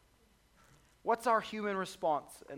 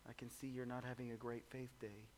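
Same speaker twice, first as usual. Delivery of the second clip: calm Jesus; 6 semitones lower, 13 dB quieter than usual. Retold or imitated. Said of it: "He says".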